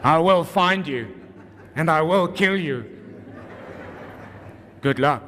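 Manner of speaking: quiet menacing action-hero promise; Liam Neeson voice. Retold or imitated. Parent imitating Liam Neeson hunting a lost child, low menace. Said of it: "You know the Liam Neeson voice?".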